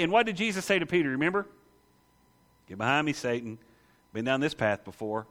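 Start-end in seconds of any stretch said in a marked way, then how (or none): 2.7-5.3 firm rebuke. Retold or imitated. Jesus rebuking Peter.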